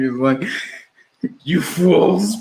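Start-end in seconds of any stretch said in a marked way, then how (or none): 1.4-2.4 lightly mocked drunken villain; Kylo Ren. Host jokes that the villain is drunk, mock drunken scolding. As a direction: sneer it as a tipsy dark lord, hammed up. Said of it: "Kylo Ren is drunk".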